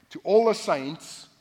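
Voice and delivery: "all" drawn out slow and loud; stress on ALL. Acted. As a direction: hit "all" hard, slow. Preacher stresses key phrase.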